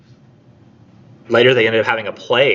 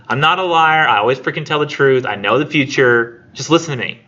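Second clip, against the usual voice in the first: raised, higher voice insisting he's honest; indignant prophet; 4 semitones higher, 3 dB louder than usual. Retold or imitated. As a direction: protest hotly, as the wronged prophet. Prophet argues with Oedipus.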